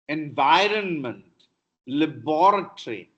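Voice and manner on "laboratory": British pronunciation. Shown as a demonstration. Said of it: "Americans say laboratory".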